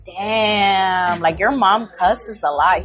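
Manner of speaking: low, drawn-out "damn"; impressed classmates, imitated. Kids in the back reacting to mom's cussing, imitated awe.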